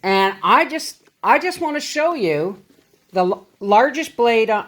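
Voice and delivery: hiccuping between words; talking through the hiccups. Real, not acted. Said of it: "I'm sorry, I have the hiccups".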